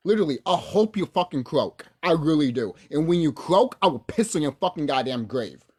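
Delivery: loud, heated threats of revenge; furious threats. Real, not acted. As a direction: threaten them with mounting rage. Threatening rant.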